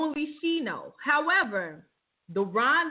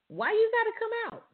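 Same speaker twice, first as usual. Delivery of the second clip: coach urging; 10 semitones higher, much faster than usual. Acted. Urging injured player to keep playing.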